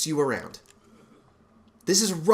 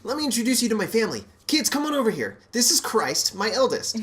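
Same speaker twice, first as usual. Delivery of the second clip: upbeat youth pastor; 5 semitones higher than usual. Acted. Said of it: "youth pastor voice".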